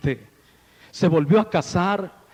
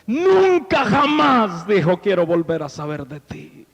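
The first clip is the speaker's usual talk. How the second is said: furious vow; 5 semitones higher, 4 dB louder than usual. Retold or imitated. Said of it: "Y empezó como loco a decirle".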